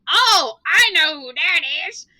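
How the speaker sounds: loud, high excited outburst; excited kids. Retold or imitated. Second graders recognising a spooky reference, excited. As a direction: blurt it out like an eager second grader.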